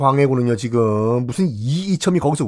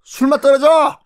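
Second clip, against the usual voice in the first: higher, snapping scold to stop the gossip; angry rebuke; 9 semitones higher than usual. Acted. Quarrel at a drinking table.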